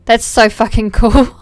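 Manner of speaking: awed. Real, not acted. Admiring a cute plushie, slow awed delight. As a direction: draw it out in awe.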